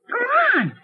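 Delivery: angry shout. Acted. Ordering trespasser away.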